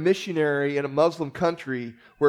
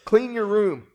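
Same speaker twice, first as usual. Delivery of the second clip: lightly acted parent command, higher pitched; parent giving orders; 6 semitones higher, 4 dB louder than usual. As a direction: order a child to do a chore. Parent ordering children about.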